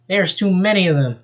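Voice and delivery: Joffrey gasping, exhausted; gasped. Acted. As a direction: gasp it out, worn out. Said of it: "gasped Joffrey".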